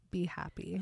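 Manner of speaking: velvety soft whisper; hushed, voiceless murmur; Edward. A narrator's reading. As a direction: whisper it gently into the ear. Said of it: "Edward's velvet voice whispered in my ear".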